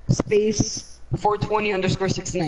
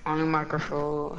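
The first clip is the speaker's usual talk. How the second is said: broken-up, scrambled audio; words dropping out on a bad mic; mic cutting out; 3 semitones lower, 6 dB quieter than usual. Real, not acted. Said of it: "Your mic's cutting out".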